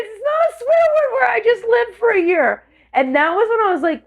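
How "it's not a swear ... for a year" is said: high, whiny protest; mock pleading to Mom. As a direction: protest high-pitched like a caught kid. Acts out sibling pleading to Mom.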